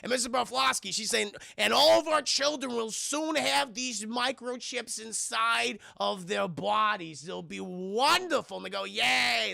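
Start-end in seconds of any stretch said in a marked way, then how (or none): 1.6-8.6 mock proclamation. Voicing Mrs Bufflosky's speech to crowd. 8.8-9.5 mildly hammed-up cheer; drawn-out mock hooray; cheering crowd. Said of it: "They're all cheering and shit".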